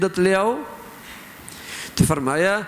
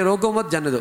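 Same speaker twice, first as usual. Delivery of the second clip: روکو مت joined and raised, then جانے دو falling; misread phrasing, break after مت; 4 semitones higher, faster than usual. Shown as a demonstration. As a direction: lift روکو مت as one unit, drop on جانے دو. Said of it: "اور اس نے پڑھ لیا". (روکو مت ملا کر، پھر جانے دو)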